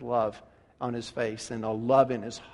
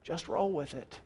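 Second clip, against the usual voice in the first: voice from heaven; 8 dB quieter than usual. Acted. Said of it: "And the voice comes from heaven".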